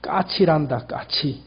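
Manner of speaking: softly and gently, fading to a near whisper; a patient young father to his little son; kind answer. Acted. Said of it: "친절하게". (어린 아들에게 다정하게 대답하는 아버지)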